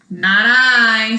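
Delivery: a firm, loud "Not I"; loud refusal. Acted. Duck loudly refusing the hen's request. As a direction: bark the refusal out.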